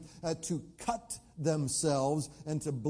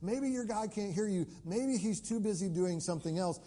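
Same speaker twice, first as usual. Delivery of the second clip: mock taunt; 4 semitones higher than usual. Elijah taunting the prophets later that day, mock taunt. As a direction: feign helpful concern to mock them. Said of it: "He begins to taunt them".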